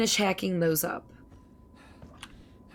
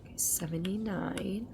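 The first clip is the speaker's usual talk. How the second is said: whispering; 8 dB quieter than usual. Real, not acted. Muttering game progress to self.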